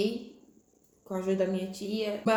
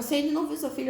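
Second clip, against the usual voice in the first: higher-pitched, mildly surprised question; surprised nurse; 7 semitones higher, much faster than usual. Retold or imitated. Nurse astonished baby unseen.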